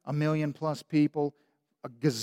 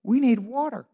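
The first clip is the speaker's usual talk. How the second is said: Moses pleading; 6 semitones higher than usual. Retold or imitated. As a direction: plead with the Lord, at your wits' end. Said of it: "They're like".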